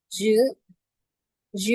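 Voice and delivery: "জ" short, in the falling fourth tone. Shown as a demonstration. Teacher shows learners the word for "this", fourth-tone demo. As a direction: say "জ" as one brief falling syllable. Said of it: "এটা হচ্ছে যে আমাদের fourth tone".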